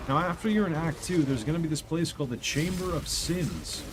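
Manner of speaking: lightly voiced calm game guide; walk them through it like a friendly mentor; a hint of a soothing narrator voice. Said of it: "only spoke in that voice forever".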